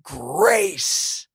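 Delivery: high, drawn-out call without full volume; mock shout. Preacher voicing the shouts over the temple, high mock shout. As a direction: call it out long and high, held back in volume. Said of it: "And so they shouted".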